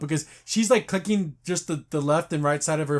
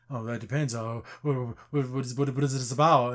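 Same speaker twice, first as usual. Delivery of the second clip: mock nervous, tripping over the question words; lightly acted nervous stutter; nervous stammering; 4 semitones lower than usual. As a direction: imitate a flustered, halting phone reply. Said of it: "Like, all super nervous".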